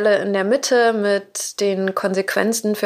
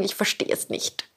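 whispered; 8 dB quieter than usual. Acted. Overwhelmed by questions.

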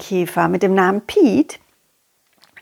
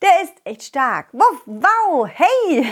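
silly clown; 2 semitones higher than usual. Acted. Silly dog song intro.

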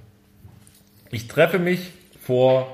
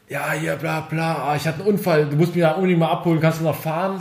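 lightly acted, rushed fake panic; mock hysterical caller; faster than usual. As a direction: imitate a friend faking an emergency call, only mildly hysterical. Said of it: "an schon mit hysterischer Stimme". (leicht gespielte hysterische Stimme)

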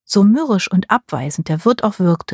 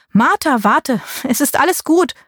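higher, called down from the window; calling out; 7 semitones higher than usual. A narrator's reading. Niece calls from the window to her aunt, calling out. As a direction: call down to reassure her. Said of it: "rief ich zu ihr".

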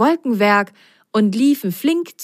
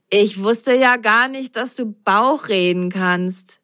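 teasing; 3 semitones higher than usual. Acted. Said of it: "grinste Ben und sagte".

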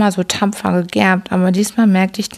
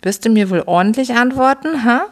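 roaring father; 5 semitones higher than usual. Acted. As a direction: bark the demand at the boy, understated. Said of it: "brüllte er".

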